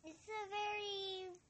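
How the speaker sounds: talking through a mouthful of crackers; words round a bite of cracker; mouth full. Real, not acted. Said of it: "sorry, I'm eating crackers".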